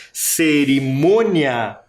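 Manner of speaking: Cerimônia with a long, stressed MÔ; stressed syllable drawn out. Shown as a demonstration. Teacher showing the tonic syllable of Cerimônia, MÔ drawn out. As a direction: stretch Cerimônia to show its stressed MÔ. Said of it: "também tem sílaba tônica".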